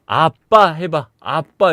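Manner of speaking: slow, drawn-out syllables; coaxing speech lesson. Retold or imitated. Father coaxes zombie daughter to say daddy, slow prompting. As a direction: teach each word slowly, like to a toddler.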